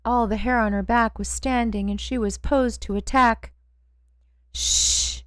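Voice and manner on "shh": breathy hushed shh; whispered shush. A narrator's reading. Narrator hushing her dog Hope in a whisper. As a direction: hush the growling dog in a whisper. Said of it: "I said in a whisper".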